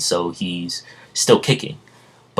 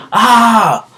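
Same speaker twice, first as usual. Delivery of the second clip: very high, drawn-out acted yell; Jay yelling; 12 semitones higher, 5 dB louder, much slower than usual. Falling villain crying out at his defeat, high drawn-out yell. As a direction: wail it out like a villain plummeting. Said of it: "He's yelling".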